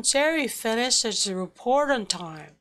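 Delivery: even beats on "Jerry", "finished", "report", "time"; stress on content words. Shown as a demonstration. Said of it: "자, 그래서 한번 더 읽어". ("Jerry", "finished", "report", "time"에 강세를 둔 리듬)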